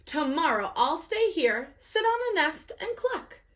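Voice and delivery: prancing at the idea of clucking; prissy peacock. Acted. Peacock mimics hen life.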